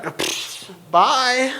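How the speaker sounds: puffed pfft, then quick farewell; mock brush-off, puff and go; dismissive bail-out. Peter bailing when things get rough, dismissive. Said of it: "he's like".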